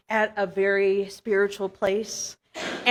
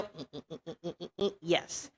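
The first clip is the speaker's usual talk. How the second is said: spirit voice; 6 semitones lower, 16 dB quieter, faster than usual. Pretend. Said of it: "And here I go".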